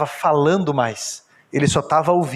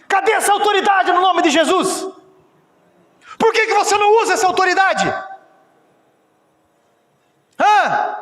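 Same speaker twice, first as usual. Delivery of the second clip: preaching at full force. Acted. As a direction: call them out from the pulpit. Preacher challenging the congregation.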